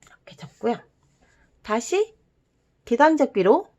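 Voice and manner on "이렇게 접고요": soft whisper while folding. Real, not acted. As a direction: whisper under your breath. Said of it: "whispering while folding".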